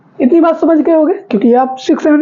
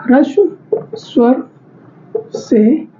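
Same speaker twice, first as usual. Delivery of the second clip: slow dictation; much slower than usual. Shown as a demonstration. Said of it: "ह्रस्व स्वर से दुगुना समय लगता है".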